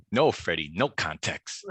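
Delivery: lightly imitated drill instructor; a hint of a strict host laying down rules; Jonathan. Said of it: "that act the drill instructor mode".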